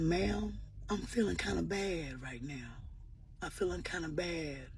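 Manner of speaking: softly voicing a sad little boy; a hint of a shy, sad boy; quiet boy's voice. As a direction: hush it like a hurt child. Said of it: "He came up to me so quietly".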